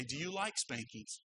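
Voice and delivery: low, softly spoken parental question; retold parent's hushed challenge; quiet parental warning. Parent questioning disobedient children, retold.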